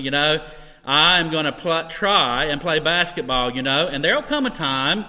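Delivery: loud mock protest, rising to a laughing finish; sarcastic. Real, not acted. Preacher kidding the congregation about his own basketball playing, sarcastic. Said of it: "I'm being sarcastic".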